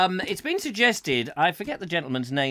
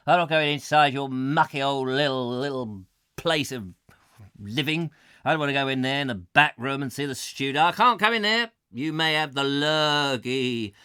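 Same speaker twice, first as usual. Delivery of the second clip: crude woman voice; 3 dB louder than usual. Retold or imitated. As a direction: refuse like a fussy neighbour. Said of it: "She doesn't actually speak like that".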